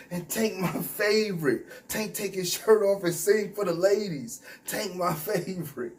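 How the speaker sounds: mocking his fanboy line; mocking his words. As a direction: parrot him teasingly. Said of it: "That's what he was saying".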